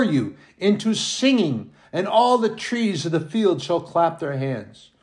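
exultant scripture reading. Shown as a demonstration. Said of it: "I'm gonna read that verse twelve again".

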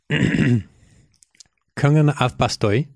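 Kongen av Bastøy said the Norwegian way; Norwegian pronunciation. Shown as a demonstration. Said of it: "that's pretty good".

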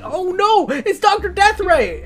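high, drawn-out cry of alarm; mock dread. Acted dread at villain's arrival.

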